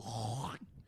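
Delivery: rough throaty hawking noise; imitated rough noise. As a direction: make a long rasping hawk.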